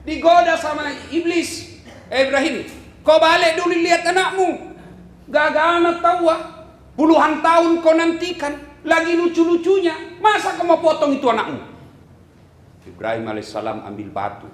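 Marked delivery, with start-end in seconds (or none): 2.1-11.6 tempting devil. Acted. Iblis tempting Ibrahim.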